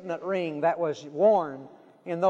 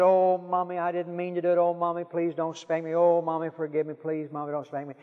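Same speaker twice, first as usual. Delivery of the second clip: put-on pleading little boy. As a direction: imitate a small boy's run-on plea. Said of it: "that little boy begs and pleads".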